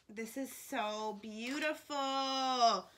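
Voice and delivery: slow, tender admiration; genuinely awed, slowed down. Real, not acted. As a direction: breathe it out in awe. Admiring the planner page.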